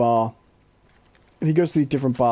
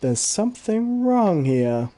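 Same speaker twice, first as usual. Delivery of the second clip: slow, raised cartoon-character puzzlement; Homer Simpson; 5 semitones higher, much slower than usual. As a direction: lightly imitate a slow realisation, drawn out. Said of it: "Homer's drinking, he goes".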